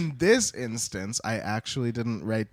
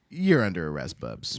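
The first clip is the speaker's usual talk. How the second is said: gruff soldier; 7 semitones lower than usual. Retold or imitated. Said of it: "the soldier with the green whiskers was like".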